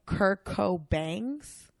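slow "Cobangs", ending in BANGS; rapper's punning name. Shown as a demonstration. Telling friend a rapper's name, slow clear "Cobangs". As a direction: draw out "Cobangs" to rhyme with fangs. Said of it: "that named himself".

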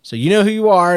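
ordinary delivery

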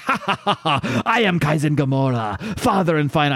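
mock villain cackle into his name; villain laugh. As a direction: ham up the evil laugh. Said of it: "And he just laughs".

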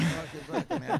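high, laughing cartoon dog voice; voicing the dog. Owner voices his tweaking Yorkshire terrier, high and laughing. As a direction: squeak it out as a frantic little dog, laughing. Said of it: "He's like".

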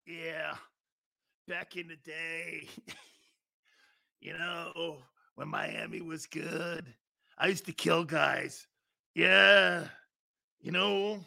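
put-on quiet, weak old man voice; a hint of a frail old man. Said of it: "Big Sills when he's seventy-five".

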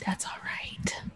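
hushed, half-whispered imagined zombie; mock reassurance. Voicing zombies settling for a bite.

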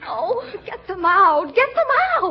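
high, slow panicky cry; rising frightened squeal; frightened plea. Acted. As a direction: beg them to get the frogs out. Sister panics about frogs.

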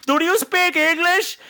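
slow, high, over-enunciated question; mock tourist. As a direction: spell it out for a foreigner. Mimicking tourists addressing local man.

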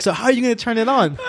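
high-pitched, laughing through the quote; laughing imitation. Officer questioning recruit on the machine, retold laughing. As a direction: imitate the officer while cracking up.

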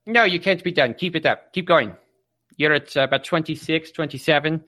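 don't let them quit; pushy coach. Acted. Coach pushing tired student.

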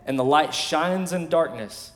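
"light" stressed, slowed and falling; solemn scripture emphasis on "light". Real, not acted. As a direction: lean on "light" and slow down. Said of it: "Watch this".

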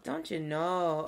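slow, rounded Minnesotan accent. Shown as a demonstration. Showing a friend how it goes, Minnesotan accent. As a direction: draw it out like a Minnesotan. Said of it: "accent, it doesn't sound Minnesotan".

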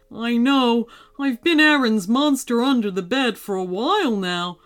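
lightly voiced sheepish monster; embarrassed monster. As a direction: confess awkwardly as a friendly monster.

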